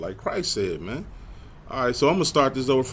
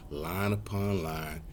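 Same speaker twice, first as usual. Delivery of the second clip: slow, deliberate teaching pace; unhurried scripture recital; slower; 2 semitones lower, 6 dB quieter, slower than usual. Shown as a demonstration. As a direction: let each phrase ooze in slowly. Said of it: "Just wanna say things slower now".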